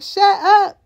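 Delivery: high-pitched mock irritation; mock hushing order. Tom and Jim to noisy Brick, mock annoyed order. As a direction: imitate men silencing someone. Others hush the noisy injured man.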